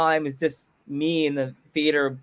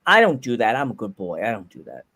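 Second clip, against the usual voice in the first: mock innocence; 8 semitones lower than usual. Mock innocence to imagined usher.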